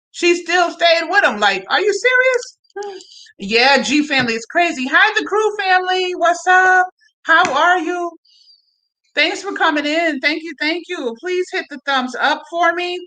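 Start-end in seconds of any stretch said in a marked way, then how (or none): 0.1-3.0 1 incredulous. Real, not acted. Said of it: "ranting in disbelief at her". 4.9-11.2 bright welcome to viewers who just joined; excited greeting. Real, not acted. Greeting live chat viewers.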